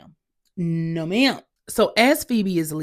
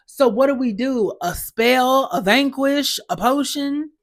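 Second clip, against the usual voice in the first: mock eager questioning; 5 semitones higher than usual. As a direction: imitate her clueless eagerness, pitched up. Quotes Phoebe's clueless eager question.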